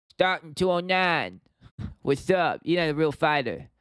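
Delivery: shaky attempt at a Stockton fighter's accent; Nate Diaz impression. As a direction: attempt a slurred American fighter, not quite landing it. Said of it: "do a Nate Diaz impression".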